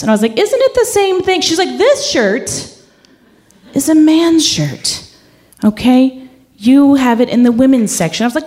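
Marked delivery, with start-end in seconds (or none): 0.4-1.4 much higher, confused disbelief; honestly baffled; baffled question. Retold or imitated. Confused reply to the boss. 1.8-8.2 higher, louder mock scolding; scolding boss. Boss scolding a shelving mistake.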